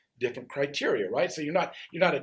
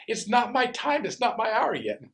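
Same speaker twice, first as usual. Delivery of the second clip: reluctant Jesus; 10 semitones higher, 3 dB louder than usual. Acted. Jesus refusing his mother.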